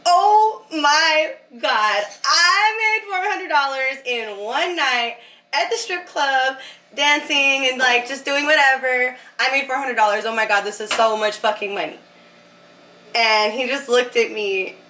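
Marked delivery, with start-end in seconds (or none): 0.1-12.0 high, thrilled gushing; excited squeal. Retold or imitated. To her future partner, gushing over four hundred dollars, high and excited. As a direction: gush about the money like it's a fortune. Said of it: "And I was like".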